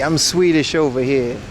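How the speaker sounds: badly faked Swedish accent; mock Swedish accent. Shown as a demonstration. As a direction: have a go at a joke Swedish accent. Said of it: "I can do Swedish".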